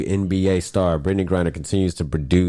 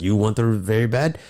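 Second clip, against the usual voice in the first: lightly put-on Russian accent; playful Russian accent, slow at the end; slower than usual. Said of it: "I love your Russian accent".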